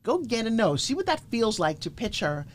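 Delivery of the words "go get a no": "Go" hit hard as a rallying cry; emphatic slogan. Shown as a demonstration. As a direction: GO punched, then a falling finish. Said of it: "See, to me".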